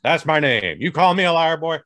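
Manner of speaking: lightly done mock American accent, a fake patriot introducing himself; a hint of a swaggering American accent; put-on American accent. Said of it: "Pay no attention to this accent".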